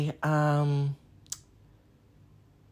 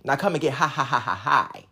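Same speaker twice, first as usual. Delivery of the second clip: laughing through the line; 5 semitones lower, 4 dB quieter than usual. Real, not acted.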